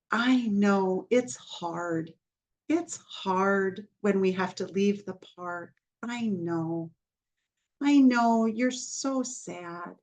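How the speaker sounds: put-on slow, soothing reassurance to an upset child; gentle validation. Shown as a demonstration. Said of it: "Maybe you're gonna validate".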